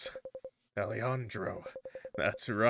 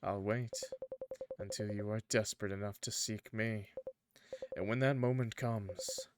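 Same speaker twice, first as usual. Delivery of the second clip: tempting dark entity. Acted.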